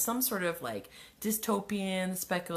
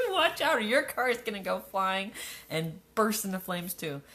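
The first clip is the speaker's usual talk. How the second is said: laughing. Real, not acted. Joking aside, laughing.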